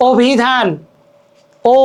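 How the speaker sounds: অভিধান opened on "o", then ও alone; initial o sound. Shown as a demonstration. Teacher isolating the first sound, "o-bhidhan", then ও. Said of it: "ও উচ্চারণ করতেছি".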